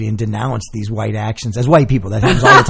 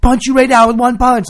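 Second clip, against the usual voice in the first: mock threat; 10 semitones higher, 4 dB louder than usual. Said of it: "he's like".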